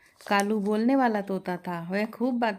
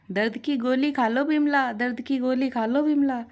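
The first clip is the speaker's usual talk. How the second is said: parrot mimicking; 5 semitones higher than usual. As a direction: parrot aping the mother-in-law. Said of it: "नकल उतारता हुआ कहता है". (सास की नकल करता तोता)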